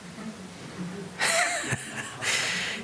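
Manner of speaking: high, squealing burst of laughter; real laughing squeal at the absurd line; incredulous laugh. Real, not acted. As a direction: laugh in disbelief at the husband. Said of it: "Well, obviously not".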